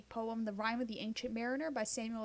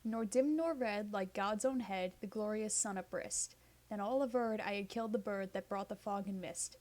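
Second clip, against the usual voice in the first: measured, rhythmic reading of ballad verse; poem recitation. Acted. Reading the Ancient Mariner aloud for listeners, rhythmic poem voice. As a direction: let each stanza roll with its beat.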